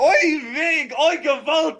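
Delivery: very high, loud cartoon yelling; caricature captor. Friend playing captors returning, high caricature voice. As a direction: burst in with a shrieked comic villain voice.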